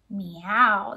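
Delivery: low, drawn meow; cat meow. Shown as a demonstration. Teacher shows what a cat says, meowing. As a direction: imitate a cat's meow. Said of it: "What sound does the cat make".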